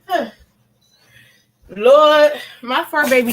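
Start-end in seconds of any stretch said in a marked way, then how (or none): 1.7-3.3 exasperated cry. Real, not acted. Exasperated exclamation at the dog.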